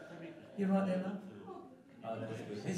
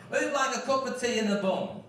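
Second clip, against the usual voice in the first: put-on Liverpool accent; 6 semitones higher than usual. Singer quotes an offer of tea, Liverpool accent. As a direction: call it out in Liverpudlian, pitched up. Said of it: "You like that accent?".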